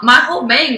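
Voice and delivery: "bang" slurred until it sounds like "mane". Real, not acted. Telling of falling-out hair, "bang" sounding like "mane". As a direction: let "bang" come out nearly as "mane". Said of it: "Did I say my mane?".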